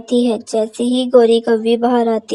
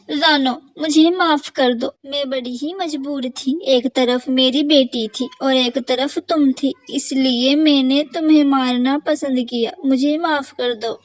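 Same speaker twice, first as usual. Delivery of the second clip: guilty apology. Acted. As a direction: beg forgiveness you know you don't deserve. (धीमी शर्मिंदा माफ़ी)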